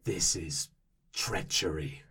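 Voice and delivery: low, slow, solemn warrior voice; grave warrior. Acted. Kith warrior gravely declaring dishonour to the party, low and slow.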